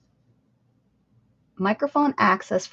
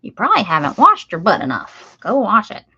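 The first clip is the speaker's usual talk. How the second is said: grandma scolding; 6 dB louder than usual. Retold or imitated. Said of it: "That's what she'd say".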